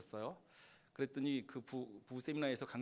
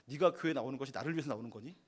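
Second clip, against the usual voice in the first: irritated retort; 4 dB louder, faster than usual. Retold or imitated. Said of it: "가끔 화가 나요".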